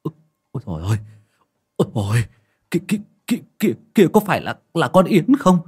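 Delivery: high, stuttering, rising in fright; stammering terror. A narrator's reading. Mourner grabs a neighbour's arm, seeing a ghost, terrified. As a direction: stammer it out, trembling with fear. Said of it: "run lên bần bật ... mà ú ớ".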